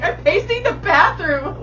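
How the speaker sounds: loud, high-pitched reenacted yell; retold exasperated answer. Answering Allie's question from the bathroom, exasperated and loud. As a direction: throw it back loudly, at wit's end.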